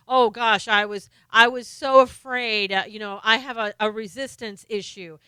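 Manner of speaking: loud mock whine, overdoing the fear; mocking whiny Comey. Host mocking Comey's excuses to the viewers, loud hammed-up whine.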